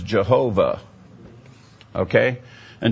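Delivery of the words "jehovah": Jehovah with an English J sound; anglicized pronunciation. Shown as a demonstration. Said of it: "The name that you all heard of was".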